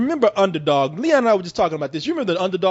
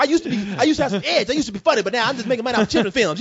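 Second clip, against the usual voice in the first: fast, slightly raised mock movie-star voice; Eddie Murphy; 2 semitones higher, faster than usual. Actor explains all his roles share one voice, mocking impression. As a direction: gabble it as a self-mocking comedian. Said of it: "that is what he gonna sound like".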